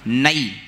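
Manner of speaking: नई as "nai", a full diphthong; big ai vowel. Shown as a demonstration. Teacher isolates the syllable नई with a big "ai". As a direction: open नई out to "nai". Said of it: "बड़ी ऐ है ना".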